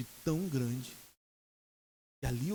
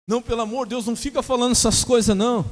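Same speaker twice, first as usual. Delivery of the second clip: high, loud mock begging; imitated panicked plea; 8 semitones higher, 11 dB louder than usual. Scared patient to the preacher about dying, mock panic. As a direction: beg him to stop, pitched up and loud. Patient begs him to stop.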